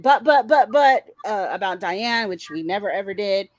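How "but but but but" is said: louder spluttering buts; mock stammering protest. Host mocking their own flustered protest. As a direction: splutter like you've been caught out. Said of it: "somehow we went".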